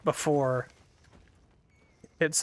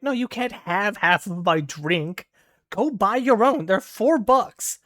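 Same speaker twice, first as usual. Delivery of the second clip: retold exasperation, rising higher and louder; exasperated refusal; 5 semitones higher, 4 dB louder, slower than usual. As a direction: refuse a mooching friend, stretching out the final words. Retold refusal to share drink.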